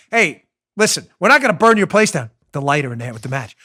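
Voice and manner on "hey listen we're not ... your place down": mobster voice. Retold or imitated. Mob enforcer voiced in story.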